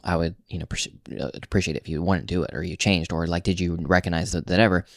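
pleasant tone. Retold or imitated. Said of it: "basically in a pleasant, you know, tone".

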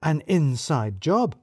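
slow, drawn-out scandalised reveal; hammed-up shock, slowed right down. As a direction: spell it out in horror. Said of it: "even more shocked".

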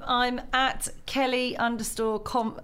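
giggling through the handle; laughing. Real, not acted. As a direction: say it while cracking up. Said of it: "Let's try that again".

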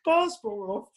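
high, laughing through the words; can barely talk for laughing. Real, not acted. Laughing while retelling.

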